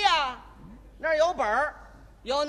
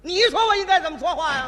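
louder mocking retort; 2 semitones higher, 5 dB louder than usual. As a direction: repeat it louder with a laugh, mocking. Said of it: "今天我就扮演这位售票员".

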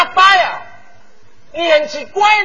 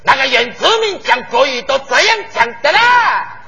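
mock Taiwanese indigenous Mandarin; sing-song Taiwan indigenous lilt, hammed up; Taiwanese indigenous accent. Asked to show it, he puts on a Taiwanese indigenous accent. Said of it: "你给学一学".

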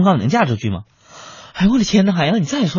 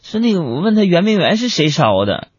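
ordinary talk

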